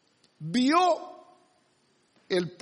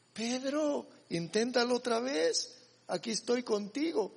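softly voiced encouragement; acted soft, comforting appeal; gentle reassurance; 2 semitones higher, 5 dB quieter than usual. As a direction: coax softly, as a patient master would. Voices a reassuring Lord to Peter.

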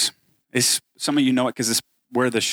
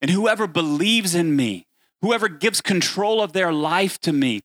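proclaiming Jesus. Acted. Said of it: "what Jesus says is".

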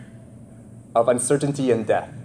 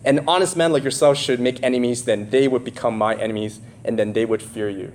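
Godfather quote. Retold or imitated. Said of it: "so he goes".

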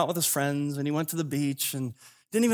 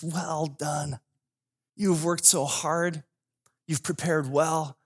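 acted fatherly approval, taking time over each phrase; proud father; much slower than usual. Father tells first son well done, slow and proud.

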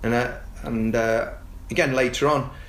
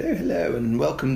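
posh voice. Retold or imitated. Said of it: "I put on a posh voice".

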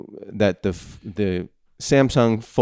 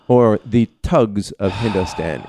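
Thugs of Hindostan in a Hindi accent; slower than usual. Shown as a demonstration. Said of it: "with a Hindi accent".

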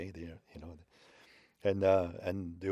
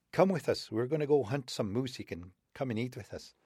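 high friendly invitation, fading down; old man wolf; 5 semitones higher than usual. Acted. Old man wolf inviting wolverine to hunt, high friendly voice. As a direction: coax him along to the hunt.

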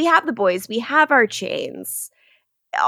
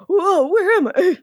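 high-pitched startled acting; mock disorientation; 8 semitones higher than usual. Host voicing Julian as he shows up, mock disorientation. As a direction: play a confused wake-up, pitched up. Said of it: "He's like".

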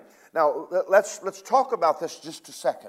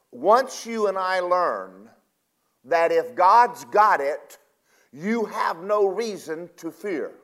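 preaching; 2 semitones higher than usual. Acted. Preaching builds to a promise.

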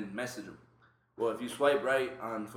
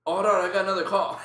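laughing fake call; 4 semitones higher, 7 dB louder than usual. Faking a second phone call.

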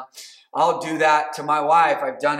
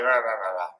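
muttered grumble; 6 semitones lower than usual. Shown as a demonstration. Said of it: "murmur or mutter with muffled undertones".

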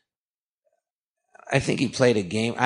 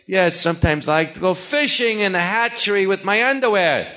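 higher, odd deadpan rhythm, a touch hammed-up; Christopher Walken impression; 6 semitones higher than usual. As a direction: say something absurd with a deadpan, offbeat lilt. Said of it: "He goes, like".

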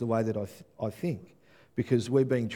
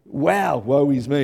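voiced loud, a touch raised, in awe; awed cry; 7 dB louder, slower than usual. Worshipper before a holy God, loud awed cry. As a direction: cry out as if struck by holiness. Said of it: "we can't help but think".

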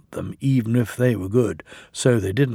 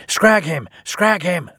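higher-pitched storybook yell; 6 semitones higher, 4 dB louder than usual. A narrator's reading. Loaded trucks set upon the engine, yelling. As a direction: yell it like a rowdy gang. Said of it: "they yelled".

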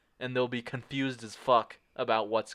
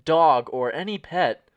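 mock newsreader; 2 semitones higher, 4 dB louder than usual. Mock breaking news bulletin.

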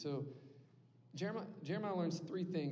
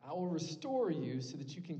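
voice of God; 5 dB louder than usual. Retold or imitated. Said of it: "you just picture him saying it".

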